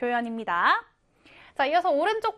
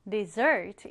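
dessert con acento en la segunda sílaba, des-SERT; stress on second syllable; 5 semitones lower than usual. Shown as a demonstration. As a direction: put the weight on the end, des-SERT. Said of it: "강세를 뒤에 두어서".

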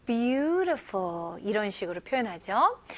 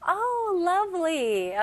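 delighted; 6 semitones higher, much slower than usual. Shown as a demonstration. Delighted example.

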